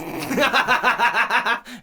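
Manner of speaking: loud, high burst of cackling; Chucky's mocking laugh. Shown as a demonstration. Showing husbands how to answer wives, mocking cackle. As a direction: laugh right in someone's face, hammed up. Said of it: "And laugh right in her face".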